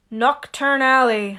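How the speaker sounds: slow, grim mutter; grim Hagrid. Acted. Hagrid naming the dark alley, grim. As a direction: say it darkly. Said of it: "said Hagrid grimly".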